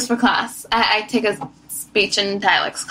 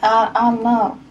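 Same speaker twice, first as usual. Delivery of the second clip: put-on country girl voice. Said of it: "What's your country girl?".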